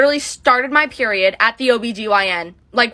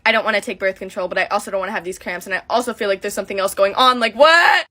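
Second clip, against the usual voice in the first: retold crying rant; 3 semitones lower than usual. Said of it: "So I start crying 'cause I'm like".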